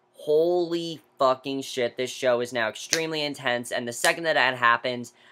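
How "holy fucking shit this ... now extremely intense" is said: normal talking voice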